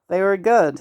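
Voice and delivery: mimicking partner's voice on request; lightly put-on copy of another's voice; voice impression. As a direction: do a playful imitation of your partner. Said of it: "you're doing my voice again".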